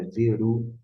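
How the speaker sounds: "veru" in two beats, ending on an open u; wrong pronunciation shown. Shown as a demonstration. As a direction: demonstrate "veru" missing its raspy ending. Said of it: "e sim veruar".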